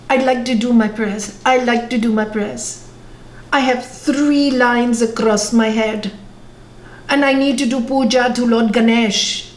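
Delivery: lightly imitated Indian accent; retelling in a mild, measured Indian accent. Speaker retells a meditating boy's sudden prayers, light Indian accent. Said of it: "talking in an Indian accent".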